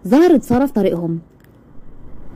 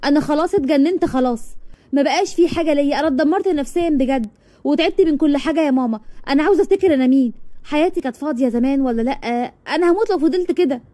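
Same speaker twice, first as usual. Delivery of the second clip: higher, softer, close to tears; distressed; 4 semitones higher, 3 dB quieter than usual. Acted. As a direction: plead with mum, on the edge of crying. Daughter breaks down to mother. (بتشتكي لمامتها وهي على وش عياط)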